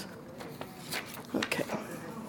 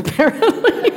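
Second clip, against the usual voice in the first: laughing; 13 semitones higher than usual. Real, not acted. Laughs at own redneck slip.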